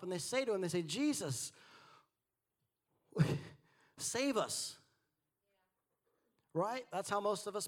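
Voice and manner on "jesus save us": higher-pitched mock cry for help; desperate plea. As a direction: call out to a sleeping Jesus for rescue. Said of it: "they call him up".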